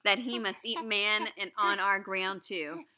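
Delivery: put-on reading a story aloud to children; lively read-aloud to a class; story narration. A narrator's reading. Teacher reading the story aloud to the class.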